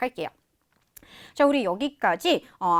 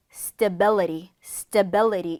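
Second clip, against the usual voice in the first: slow stability, weight on "bi"; stress on BI; much slower than usual. Shown as a demonstration. Teacher demonstrates word stress, stability stressed on "bi". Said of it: "강세는 비아이에 있어요".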